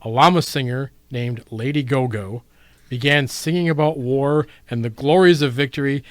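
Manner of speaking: mock-epic storyteller reading a fable; story narration. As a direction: tell it like a grand legend, with a playful wink. Host reads a fable aloud.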